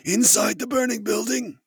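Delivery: high-pitched disbelief; incredulous question. Acted. Reacts in disbelief to a plan.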